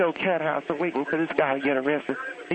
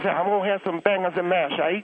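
lightly put-on Cockney for a stock phrase; mock Cockney accent. Aunt imitating an EastEnders character, mock Cockney. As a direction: do a rough, half-hearted Cockney imitation. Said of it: "here's what he says".

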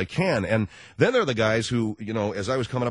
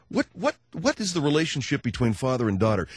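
usual speaking voice

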